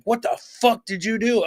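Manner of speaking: high-pitched mock scolding; put-on high, shocked dad; incredulous dad. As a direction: imitate a father demanding an explanation. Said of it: "he's like".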